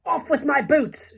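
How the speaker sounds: very high, loud panicked order; shout. A narrator's reading. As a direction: shout an urgent demand. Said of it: "shouted the centipede".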